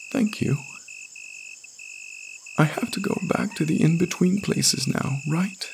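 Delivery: put-on high, small child's voice; small boy's voice. Boy thanks woman before leaving, high childlike voice. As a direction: speak as a little boy, pitched high. Boy takes leave in story.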